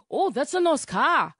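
slow, lightly voiced dad; a hint of his dad, drawn out slowly; easygoing dad admiring the car, slow; imitating dad. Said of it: "he's like".

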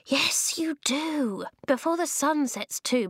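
high, exasperated little man; sighing weedy voice. A narrator's reading. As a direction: agree with high-voiced, weary impatience. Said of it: "The voice sighed".

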